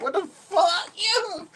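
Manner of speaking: high-pitched mock shriek; retold outburst. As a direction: squeal it out in exaggerated childish disbelief. Acts out his outburst at laughing mom.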